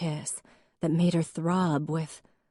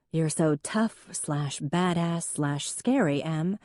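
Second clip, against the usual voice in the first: mock gushing; slower than usual. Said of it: "This was usually when the response was".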